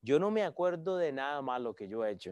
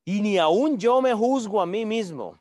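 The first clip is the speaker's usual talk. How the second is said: slow, louder, high haughty reading; prepotent Paul; 5 semitones higher, 6 dB louder than usual. Shown as a demonstration. Preacher voicing Paul as prepotent, slow and proud. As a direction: say it with lofty arrogance. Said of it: "pero prepotente".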